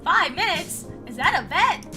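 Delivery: lightly voiced Trump accent, questioning. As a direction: challenge in a mock Trump accent. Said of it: "I think it's supposed to be".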